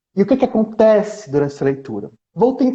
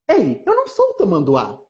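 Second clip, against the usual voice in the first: mock indignant. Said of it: "narrador surpreso".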